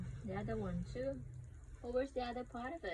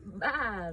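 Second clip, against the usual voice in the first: loud short playful baa; sheep bleat; 2 semitones lower, 6 dB louder than usual. Shown as a demonstration. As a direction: imitate a sheep for a toddler. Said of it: "sheep say?".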